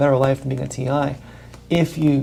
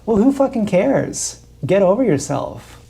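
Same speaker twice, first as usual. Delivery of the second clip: exasperated outburst; 6 semitones higher, slower than usual. Real, not acted. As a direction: snap it at them, fed up. Ranting at complaining TIs.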